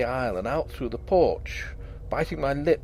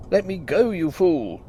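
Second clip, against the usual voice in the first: gasped; 5 semitones higher than usual. A narrator's reading. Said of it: "I gasped".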